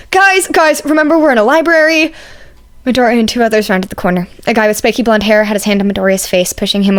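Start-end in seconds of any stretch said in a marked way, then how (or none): 0.1-2.1 flustered shushing. Acted. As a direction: scold the friends to keep it down. Ida hushes the others.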